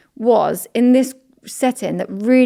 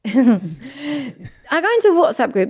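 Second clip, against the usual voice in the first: whisper; 4 semitones higher, slower than usual. Real, not acted. Laughing whisper, building suspense.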